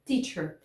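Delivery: "teacher" with a crisp stop T; firm unflapped T in "teacher"; correct initial T. Shown as a demonstration. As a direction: model "teacher" starting on a clean T burst. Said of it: "Eu não poderia falar teacher".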